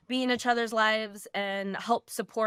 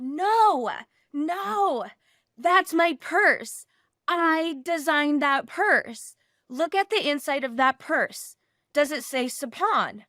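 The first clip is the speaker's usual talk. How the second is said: loud, raised, insistent mock scolding; imitated yelling; 5 semitones higher, 5 dB louder, slower than usual. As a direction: play an outraged owner staking her claim, punching each phrase. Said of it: "yelling, screaming at me".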